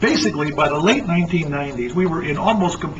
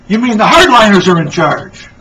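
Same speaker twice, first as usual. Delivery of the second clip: confused; 4 semitones higher, 10 dB louder than usual. Acted. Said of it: "asks confusedly".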